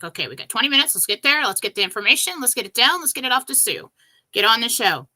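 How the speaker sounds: loud, eager self pep talk; rally yourself, no time to lose; pumped-up hurry; excited urging. Retold or imitated. Racing to the field, urging herself.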